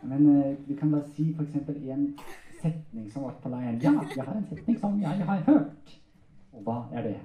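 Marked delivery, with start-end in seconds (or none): 3.8-5.8 high, cheeky ventriloquist puppet voice; puppet character. Acted. Puppet correcting its handler, high comic voice. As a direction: pipe up higher, like a comic puppet.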